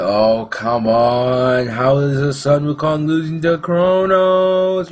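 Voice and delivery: slow, incredulous complaining gamer; frustrated solo queue player. Retold or imitated. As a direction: whine like a teammate losing lane. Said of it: "that would be like the".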